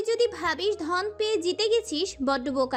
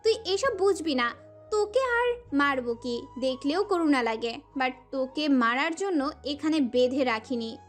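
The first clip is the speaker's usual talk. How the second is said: scornful tirade in a higher character voice; enraged; 3 semitones higher than usual. A narrator's reading. Prohelika rages at her captive about what love means, furious and scornful. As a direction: lash out with contempt, pitch swinging up. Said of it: "প্রহেলিকা প্রচণ্ড মাত্রায় ক্ষেপল".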